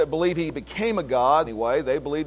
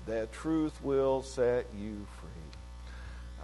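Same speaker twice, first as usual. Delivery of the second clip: slow, soft emphasis; 5 semitones lower, 10 dB quieter, much slower than usual. Acted. Preacher repeats the key verse slowly.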